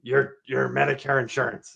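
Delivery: too serious. Shown as a demonstration. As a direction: rush at them with urgency. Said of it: "super serious".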